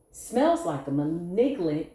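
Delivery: real giggles breaking into the word; can't get the word out for laughing. Real, not acted. Reading tarot to viewers, laughing mid-word. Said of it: "I'm laughing because".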